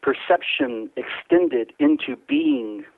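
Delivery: slow, measured spoken-word delivery; poetry reading. Acted. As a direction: let each image hang in the pauses. Reads his poem on air.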